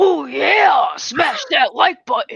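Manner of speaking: very slow, drawn-out, dragged-out macho voice. Doing an impression for the others: Macho Man voice. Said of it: "he does a pretty good Macho Man".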